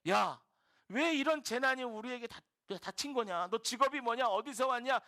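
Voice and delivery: acted rapid-fire interrogation, climbing in pitch; pouring out questions. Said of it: "막 질문을 쏟아냅니다". (질문을 쏟아내며 다그치는 선원들 흉내)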